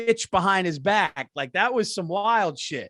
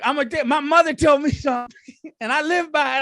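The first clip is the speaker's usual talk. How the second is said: higher, self-righteous husband; mock husband voice; 7 semitones higher than usual. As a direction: play the smug husband caught out. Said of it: "you're like".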